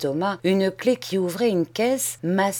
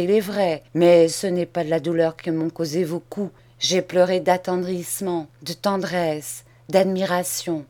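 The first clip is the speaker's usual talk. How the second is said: mock sincerity. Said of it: "Charles sourit ironiquement".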